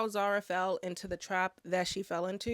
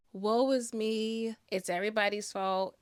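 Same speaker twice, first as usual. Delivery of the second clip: mock self-pity. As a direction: imitate a man wallowing in blame. Mocking the man's self-pity.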